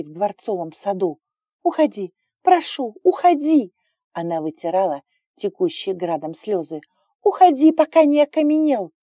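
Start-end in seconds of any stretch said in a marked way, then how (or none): 1.6-3.7 tearful pleading. Acted. Crying girl begging him leave. 7.2-8.9 high loud sobbing plea; desperate crying plea. Acted. Crying girl begging him leave.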